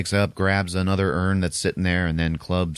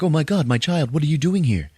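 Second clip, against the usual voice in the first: higher, mock-alarmed priest voice; startled priest; 8 semitones higher than usual. Priest running into Liz, in high mock alarm. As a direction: act out a priest's shocked discovery.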